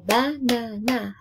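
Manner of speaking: BANANA stretched into ba, na, na; syllable by syllable. Shown as a demonstration. Teacher summing up the count, syllable by syllable. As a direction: draw out each syllable of "banana". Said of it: "has three syllables".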